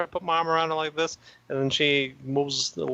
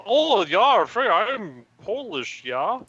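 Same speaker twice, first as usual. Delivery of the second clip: mock Wisconsin accent; 6 semitones higher, 4 dB louder, much slower than usual. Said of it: "talk like they're from Wisconsin".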